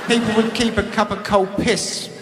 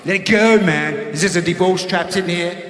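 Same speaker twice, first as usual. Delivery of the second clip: mocking healer; 3 semitones lower than usual. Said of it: "he said".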